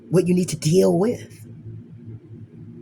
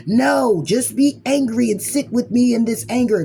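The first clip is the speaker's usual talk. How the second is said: higher, louder insistent demand; angry retort; 5 semitones higher, 4 dB louder than usual. Pretend. Anger demanding you sit with it, insistent and loud. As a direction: push back hard as Anger.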